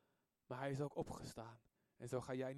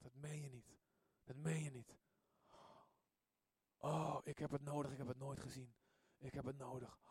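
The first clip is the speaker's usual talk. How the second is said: stunned inner thought; 2 semitones lower, 6 dB quieter than usual. Retold or imitated. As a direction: murmur it to yourself in disbelief. (zacht en ontdaan, binnensmonds)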